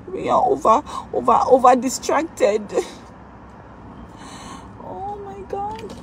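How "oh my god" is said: soft, slow, shocked oh my God; barely voiced disbelief at the ranking; breathy stunned gasp. Real, not acted. Streamer stunned by vote ranking, gasps softly.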